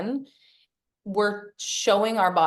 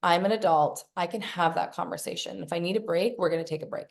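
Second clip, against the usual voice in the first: put-on reassuring inner child. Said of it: "We're like".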